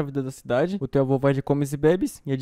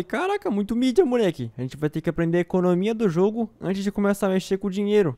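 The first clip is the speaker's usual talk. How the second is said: excited exclamation; 5 semitones higher than usual. Retold or imitated. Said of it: "eu até falei".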